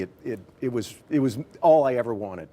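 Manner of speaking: real choked-up catch, repeating words; choking up. Real, not acted. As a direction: voice catching with emotion, halting. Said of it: "I'm choking up now".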